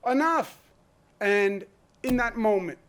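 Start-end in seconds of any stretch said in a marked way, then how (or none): 0.1-0.7 louder, higher closing "Enough." as a firm shout; voicing the people's final demand. The people telling lawmakers they are done, shouted firmly. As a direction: slam the door on it with "Enough.". People fed up after Sandy Hook.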